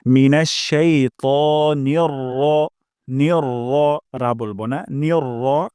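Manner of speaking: নির র with a short unstretched র; Arabic short ra. Shown as a demonstration. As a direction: keep the র short, no রা. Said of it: "র বলবো".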